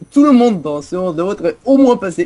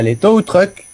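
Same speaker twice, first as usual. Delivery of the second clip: "tow trucks" said with a French accent; "les tow trucks" in an ordinary French accent; 5 semitones higher, slower than usual. Real, not acted. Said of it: "je l'ai dit avec l'accent bien français".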